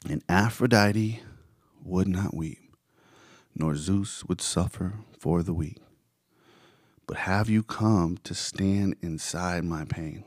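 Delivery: slow, measured spoken-word lyrics; solemn verse reading with pauses between phrases; poetic recitation. Acted. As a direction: recite it line by line with drawn-out words. Recites the bridge of the song.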